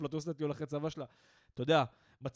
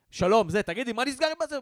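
louder, higher imitation of screaming at a phone rep; mock yelling; 6 semitones higher, 6 dB louder than usual. Caller yelling at a service rep, mock shout. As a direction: blast the greeting, then climb into a shout. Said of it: "מתחיל לצרוח".

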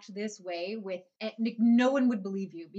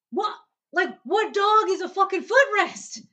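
louder and higher, slow outraged question; exasperated; 9 semitones higher, 7 dB louder than usual. Real, not acted. Asking the room in disbelief, loud, slow and exasperated. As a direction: drag out the outrage.

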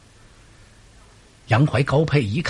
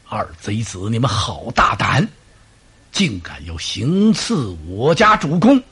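stern accuser; 6 semitones lower than usual. Acted. Pang Tong denounces the assassins.

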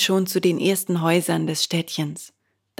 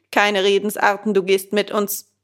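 a hint of a stern officer, louder at the end; commanding gendarme; 4 dB louder than usual. The gendarme arrests Bengele with a firm order. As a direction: order him along.

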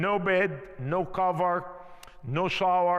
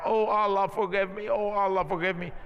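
mild mock shout, the Oh lines pushed a bit harder each time; retold rising shout; 3 semitones higher, faster than usual. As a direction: retell the clerk crying out, building only slightly. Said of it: "started shouting higher and higher".

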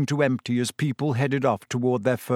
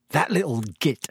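calm. A narrator's reading. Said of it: "he said calmly".

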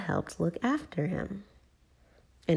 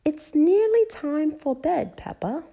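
Mummy; 11 semitones higher, 5 dB louder than usual. A narrator's reading. Mummy telling Peppa it is bedtime, motherly. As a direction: let the child down gently but firmly. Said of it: "replied Mummy".

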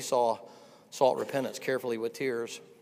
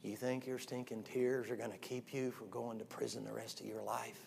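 cold retort; 5 semitones lower, 13 dB quieter than usual. Retold or imitated. Detective scolding a crying prisoner.

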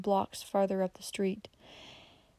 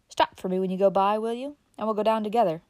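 offhand, louder folksy request; careless; 5 dB louder than usual. Acted. Uncle Bobby rising to leave, casual old man. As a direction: say it lightly while getting up. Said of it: "continued carelessly".

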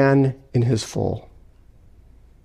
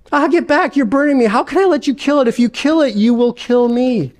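higher, frightened ghost being burned; panicked ghost; 8 semitones higher than usual. Acted. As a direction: cry out from the heat, pleading.

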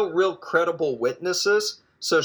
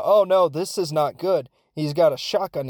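alarmed crowd; 3 semitones higher, 4 dB louder than usual. Retold or imitated. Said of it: "all the people watching are going".

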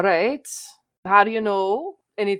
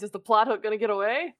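words broken by giggles; laughing. Real, not acted. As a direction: say it while cracking up. Player joking through laughter.

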